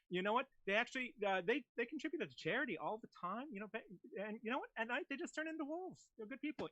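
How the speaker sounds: cabin announcement to passengers; flight attendant announcement. Acted. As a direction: airline PA address. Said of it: "your character is gonna be a flight attendant".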